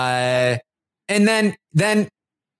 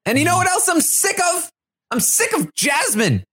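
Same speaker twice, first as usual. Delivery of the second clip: higher pitched, hammed-up complaining rant; mock rant; 6 semitones higher than usual. Host replaying Michael's diary room rant, mock angry. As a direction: vent like a fed-up houseguest. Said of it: "That was the only part of the rant".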